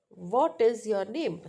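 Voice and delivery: "What is your name" asked with a lifted, moving pitch; question intonation. Shown as a demonstration.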